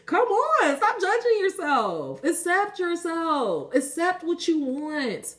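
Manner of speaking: high, drawn-out impassioned plea; passionate. Real, not acted. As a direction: urge them on, stretching the words. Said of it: "I'm getting so passionate about it".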